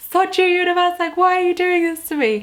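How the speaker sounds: high, loud exasperated yell at the universe; shouting in frustration at the universe; angry outburst. Retold or imitated. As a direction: vent your fury at the sky. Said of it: "Like, I'm so angry".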